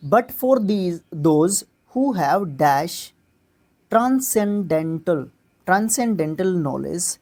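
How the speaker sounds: very slow, word-by-word reading of an English text; slow passage reading. Shown as a demonstration. Teacher reading the cloze passage aloud, very slowly. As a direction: read each word out deliberately for the class.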